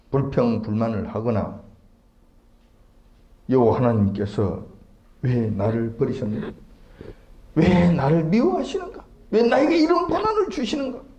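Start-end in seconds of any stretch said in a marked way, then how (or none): 3.5-11.0 rising, high-pitched, grumbling complaint. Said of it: "하고 불평, 불만을 하기 십상".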